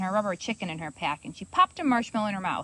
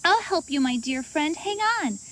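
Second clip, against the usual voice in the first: reassuring; 6 semitones higher than usual. Acted. Girl reassures frog.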